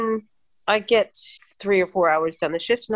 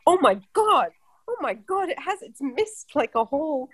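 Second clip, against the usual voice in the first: mock panic; 7 semitones higher than usual. Panicked self-quote about missed dose.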